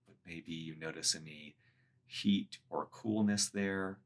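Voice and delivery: measured meditation guide with long pauses; guided meditation. Acted. Meditation teacher guiding listeners through a body scan, guided meditation. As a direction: lead them gently through it, leaving space between phrases.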